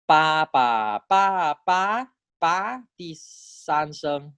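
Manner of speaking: "ba" rising high then falling; "ba" in Thai third tone, high then falling; tone three ba. Shown as a demonstration. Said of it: "I get 第三声".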